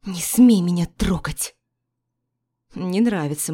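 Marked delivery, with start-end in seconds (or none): 0.0-1.5 loud warning. Acted. Wife pushes him away.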